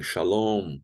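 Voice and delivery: shalom ending in a hummed M; final M closed. Shown as a demonstration. Teacher showing students the final M, shalom with lips closed. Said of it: "fechando bem os lábios".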